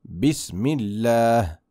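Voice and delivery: Bismillah drawn out, very slow; slow recitation demo. Shown as a demonstration. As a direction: model it slowly for the student. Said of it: "Puedes repetir conmigo".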